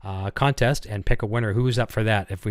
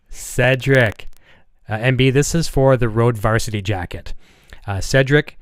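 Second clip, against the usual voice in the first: hyped giveaway announcement; 5 dB louder, slower than usual. Real, not acted. Announcing contest winner.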